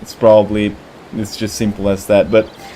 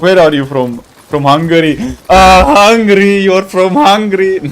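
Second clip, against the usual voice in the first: joke dialogue; 7 semitones higher, 4 dB louder than usual. Pretend. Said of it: "You know the oldest joke".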